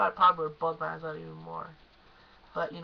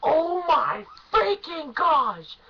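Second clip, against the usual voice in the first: higher and louder, stretched out slowly; gushing excitement; 9 semitones higher, 9 dB louder, much slower than usual. Real, not acted. Fan gushing to viewers about the concert intro, excited. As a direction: squeal it like a thrilled fan.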